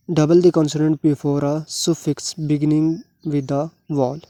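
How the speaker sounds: slow, word-by-word reading of the English rule; rule read aloud. Shown as a demonstration. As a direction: dictate it slowly to the class. (धीरे-धीरे नियम पढ़ना)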